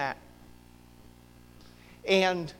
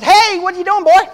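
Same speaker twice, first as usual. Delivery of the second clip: much higher, louder call of God; God's voice; 13 semitones higher, 17 dB louder than usual. Retold or imitated. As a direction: hail him like God tapping his shoulder. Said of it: "God comes over and taps me on the shoulder and says".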